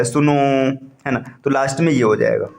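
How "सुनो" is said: सुनो with the final ओ held long; prolonged calling vowel on सुनो; calling out, drawn-out. Shown as a demonstration. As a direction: call सुनो to someone, stretching the last vowel. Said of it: "जैसे आपने किसी को बुलाया".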